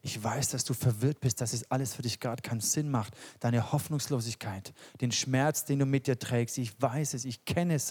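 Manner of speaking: Jesus reassuring the grieving woman, softly; tender Jesus. Retold or imitated. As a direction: speak it as Jesus comforting gently. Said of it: "sagt Jesus".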